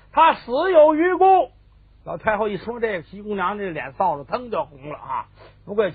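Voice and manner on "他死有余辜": high, loud, slow verdict; drawn-out, forceful denunciation; emphatic condemnation. Acted. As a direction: pronounce it as a damning judgement. Empress dowager condemns the old minister.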